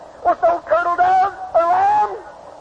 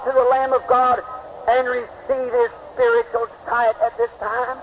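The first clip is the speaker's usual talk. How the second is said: prayer. Acted. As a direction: pray over the congregation, settling down into reverence. Preacher leads closing prayer.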